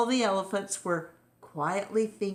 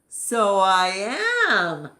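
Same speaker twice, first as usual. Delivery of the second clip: smug reply; 3 semitones higher, 7 dB louder than usual. Acted. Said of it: "said Elmer".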